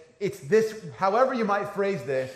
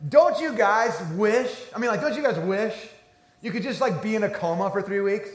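bright, eager mock earnestness, a touch higher and louder; quoting a friend's cheerful wish with full enthusiasm; lightly voiced excited friend; mock enthusiastic friend; 5 semitones higher, 4 dB louder than usual. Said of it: "with utter seriousness and with full enthusiasm".

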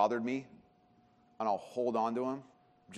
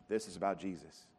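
soft, hushed Jesus; 7 semitones lower, 9 dB quieter than usual. Shown as a demonstration. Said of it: "Business, Jesus".

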